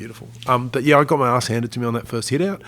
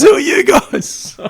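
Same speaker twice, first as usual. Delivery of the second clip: high, loud, slow Aussie drawl, imitated; mock Aussie accent; 12 dB louder, much slower than usual. Afghan local quizzing the patrol, in a slow, high mock Aussie accent. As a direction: stretch it out like a Westie from Sydney. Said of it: "he had a full-on accent".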